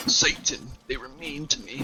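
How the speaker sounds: high-pitched picked-on dork; hammed-up high whining; mock whiny cultist. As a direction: make fun of the cultist in a high, pitiful voice.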